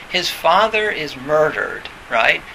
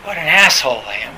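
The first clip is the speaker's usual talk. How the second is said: mock self-reproach; 4 dB louder, faster than usual. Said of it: "And you go".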